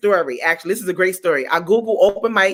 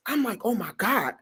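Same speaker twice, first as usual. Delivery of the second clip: scared; 10 dB quieter than usual. Retold or imitated. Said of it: "I was so scared".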